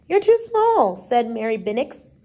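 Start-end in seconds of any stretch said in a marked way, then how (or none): 0.1-0.9 put-on high, louder child's protest; loud, high-pitched pupil's objection; objecting schoolgirl. A narrator's reading. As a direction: pipe up bluntly against the teacher. Girl objects to tiny teacher.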